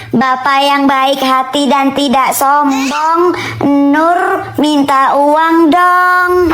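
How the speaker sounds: slow, drawn-out sweet-talk; butter up dad for money; coaxing child voice begging father; wheedling. Acted.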